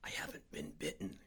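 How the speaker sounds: very soft, low breath-only whisper. A narrator's reading. Sick man corrects his frightened friend, low whisper. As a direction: barely let the words out. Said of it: "he whispered".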